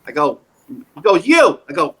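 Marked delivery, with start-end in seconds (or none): 1.2-1.6 high, louder call; yelled out. Retold or imitated. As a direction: call out to get his attention. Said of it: "a guy yells out to me".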